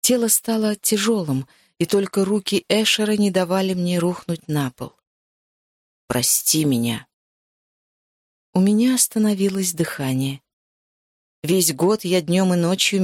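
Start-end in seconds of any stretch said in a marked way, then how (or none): 6.1-7.1 lower, slow, gentle male voice; man's apology. Acted. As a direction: say it low and slow, remorseful. Male character apologises to heroine. (низкий медленный мужской голос, с раскаянием)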